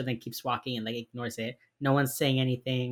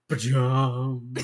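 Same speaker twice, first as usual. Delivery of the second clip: ba-dum sting; 2 semitones lower than usual. Retold or imitated. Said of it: "there's, like, a stinger".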